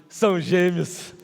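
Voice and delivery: very slow, drawn-out punchline; slow reveal. Retold or imitated. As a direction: drag out the twins news. Colleague reveals twins.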